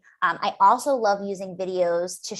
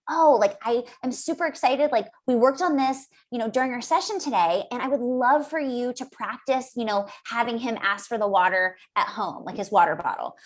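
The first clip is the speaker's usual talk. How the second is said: upbeat, encouraging parent message; excited coaching voice. Shown as a demonstration. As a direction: show real enthusiasm in the intonation. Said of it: "if I'm excited and you can hear that intonation in my voice".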